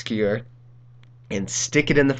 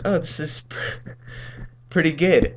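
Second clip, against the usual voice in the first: higher-pitched, lightly pleased imitation; happy friend's mom; 6 semitones higher than usual. Friend's mom tasting her s'more, lightly voiced happy approval. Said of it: "friend's mom was just happy as can be".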